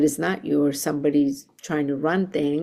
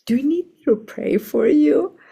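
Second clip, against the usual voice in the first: pitched up and a bit louder, kindly; high sweet offer; 9 semitones higher, 4 dB louder than usual. Retold or imitated. Reverend offering prayer to the gruff supervisor, high and sweet. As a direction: offer to pray in a bright, lifted voice.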